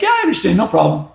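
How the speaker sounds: put-on a cheerful kid taking it happily; thrilled. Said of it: "If he was thrilled, he'd be like".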